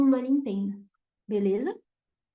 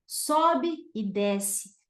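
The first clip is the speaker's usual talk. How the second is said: Sobe e desce drawn out very slowly, voice climbing then dropping; rising and falling tune; 3 semitones lower, much slower than usual. Shown as a demonstration. Teacher demonstrating rising and falling intonation, very slow. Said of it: "lembra que eu falei ascendente e descendente".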